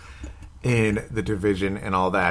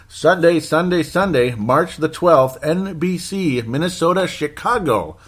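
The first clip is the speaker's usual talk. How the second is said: high, slow big-event announcer call; hype announcer; 7 semitones higher, slower than usual. Pretend. Fan hypes the Sunday game like an announcer. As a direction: announce the matchup like a monster-truck ad.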